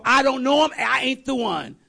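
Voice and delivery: emphatic mock outburst of denial; heated denial. Peter's final denial, acted out.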